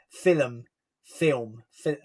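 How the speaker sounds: film said as fi-lum, two syllables; film with an extra vowel, filum. Retold or imitated. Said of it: "where you were like".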